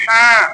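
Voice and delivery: "হ্যাঁ" as a ha pressed from mid-throat. Shown as a demonstration. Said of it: "মাঝখানে চাপ দিবেন".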